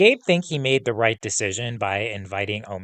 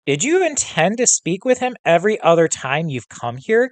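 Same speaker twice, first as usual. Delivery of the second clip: a pointed, raised demand; 7 semitones higher, 4 dB louder than usual. Acted. Kayan confronting Gabe over his contacts, a raised demand. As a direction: press him hard for an answer. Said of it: "Kayan demanded".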